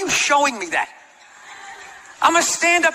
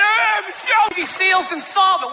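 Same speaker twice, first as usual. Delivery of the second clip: mock shout; 6 semitones higher than usual. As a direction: call out to Michelle, hammed up. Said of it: "Show up with a sharpened mic stand?".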